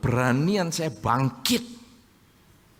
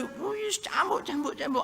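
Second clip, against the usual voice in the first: mock angry mother whipping; 11 semitones higher, 6 dB quieter than usual. Preacher mimicking a mother whipping her child, high and hammed-up. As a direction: play the mother lashing out, half in jest.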